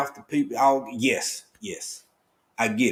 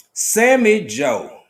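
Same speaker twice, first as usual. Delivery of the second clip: drawn-out call; 8 semitones higher, 6 dB louder, much slower than usual. Real, not acted. Calling out to viewer.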